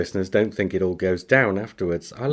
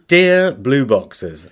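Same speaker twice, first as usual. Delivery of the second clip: drawn-out pompous greeting; slow mock formal; 2 semitones higher, 6 dB louder, much slower than usual. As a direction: stretch it out grandly. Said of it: "Makes me sound childish".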